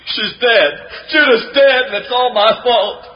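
high, anguished cries of guilt; distraught. Acted. Young man finding his girl apparently dead, distraught and anguished. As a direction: break down over her body.

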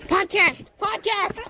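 repeated call climbing in pitch to a shout; insistent hail ending in a laughing shout. Real, not acted. Calling to passer-by, escalating.

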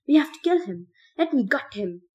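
high, loud manic shout; frantic shout. Acted. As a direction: demand it like a madman. Ben raving, wants to kill.

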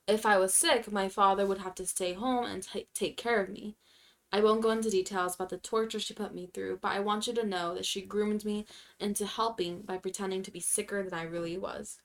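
even, measured read-aloud; subdued narration of a written story. Acted. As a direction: read a sad submission plainly and steadily. Reads a submitted sad story.

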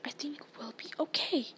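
soft, hushed reassurance; whispered. A narrator's reading. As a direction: whisper it while hiding. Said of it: "Harry whispered".

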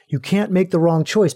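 firm stress on "can't make the wrong choice"; emphatic. Real, not acted. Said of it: "I'm going to say that emphatically".

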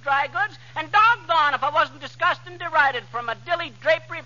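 running out of air mid-patter; gasping through the last words; out of breath. Acted. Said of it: "I'm out of breath".

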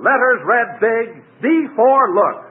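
slow deliberate reversed words; backwards speech. Pretend. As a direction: recite the slogan word by word in reverse. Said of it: "this year I'm going to say it backwards".

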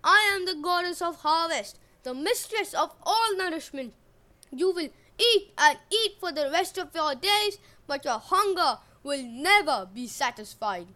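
loud, high, wrathful divine curse; roaring goddess. Acted. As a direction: pronounce doom on the prince. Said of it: "Demeter roared".

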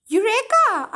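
loud, high shout of discovery; triumphant cry. Acted. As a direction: cry it out like you just struck gold. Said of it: "I cried".

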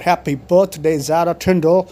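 excited shout-out. Real, not acted. Birthday shout-out to Zara Tindall.

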